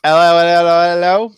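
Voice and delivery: put-on loud sing-song English-accented hellos; playful English accent greeting. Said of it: "Picking up the accent?".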